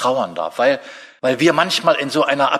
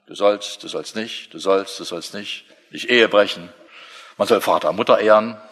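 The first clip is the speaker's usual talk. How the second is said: a hint of a strict lawgiver; stern lawgiver; 6 semitones lower than usual. Preacher mocks the image of God as a commander, gruffly. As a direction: lower mock stern commands.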